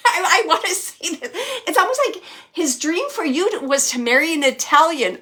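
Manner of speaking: high, loud, laughing delivery; amused, holding back laughter. Real, not acted. Medium relaying a grandfather's odd dream to his granddaughter, laughing. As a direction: say it through real laughter. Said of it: "It makes me wanna laugh".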